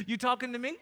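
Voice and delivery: mock New Jersey accent, rising question. Preacher repeats Samuel's question as a joke, New Jersey accent. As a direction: ask it like a New Jersey local. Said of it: "New Jersey accent".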